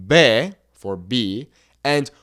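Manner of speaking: B said as Spanish "be", slow; letter name in Spanish; Spanish alphabet. Shown as a demonstration. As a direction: say "B" the Spanish way, slowly. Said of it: "we would say".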